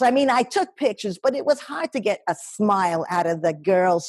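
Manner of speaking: lightly voiced old New York lady; older lady. Older New York lady greeting diners in a restaurant, lightly voiced and chatty. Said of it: "the character is an older lady".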